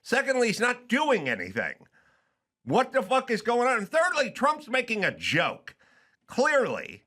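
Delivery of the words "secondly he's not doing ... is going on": indignant rant. Retold or imitated. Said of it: "all I ever said was".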